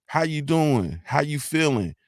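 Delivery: easy, sociable hello; friendly greeting. Shown as a demonstration. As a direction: greet them like country folk. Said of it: "Like, we say".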